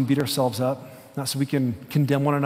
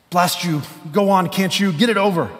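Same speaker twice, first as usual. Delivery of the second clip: higher, louder anguished outburst; desperate ghost; 5 semitones higher, 4 dB louder than usual. Acted. Ghost yielding to the angel, anguished and louder. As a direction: force the words out in torment.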